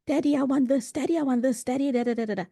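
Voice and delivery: put-on high, eager child voices calling daddy; lightly voiced children pestering their father; clamouring kids. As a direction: imitate a crowd of kids begging their dad.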